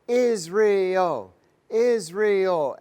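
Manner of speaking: loud, high mock gushing over Israel; mocking an evangelical visitor's rapture; gushing fan. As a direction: ham up a starry-eyed evangelical.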